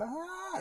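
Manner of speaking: a quick, high, imitated shriek; mock scream. Retelling the mother screaming on the street, a high mock cry. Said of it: "empezó a gritar la señora".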